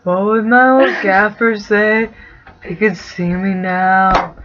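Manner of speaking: slow stoner musing; dreamy stoned Sam. Acted. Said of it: "he's totally baked".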